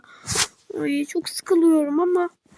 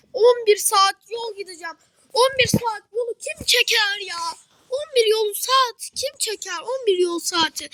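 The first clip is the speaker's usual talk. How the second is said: exasperated complaint; 6 semitones higher than usual. Pretend. Girl complains about the eleven-hour bus trip, exasperated whine.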